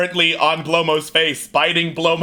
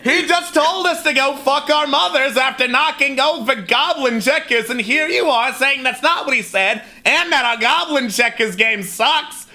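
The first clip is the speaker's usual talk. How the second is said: high, indignant goblin tirade with laughter breaking through; angry goblin rant; 7 semitones higher than usual. Acted. Goblin scolding the party over the checkers game. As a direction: rant like an offended little goblin. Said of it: "The goblin turns to you and is like".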